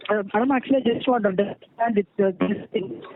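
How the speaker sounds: muffled voice, as if covered. Real, not acted. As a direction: speak through a covered mouth. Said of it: "you're sounding muffled".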